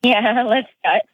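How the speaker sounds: laughing nervously; a jittery little laugh before the call. Real, not acted. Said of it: "There's the nervous laughter".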